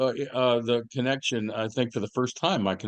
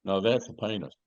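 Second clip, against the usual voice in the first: Paul Hogan impression. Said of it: "This is my impersonation of Paul Hogan".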